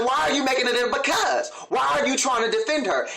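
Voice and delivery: indignant demand. Retold or imitated. Boyfriend confronting girlfriend defending her mother, indignant. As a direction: push back as if catching her out. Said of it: "he's like".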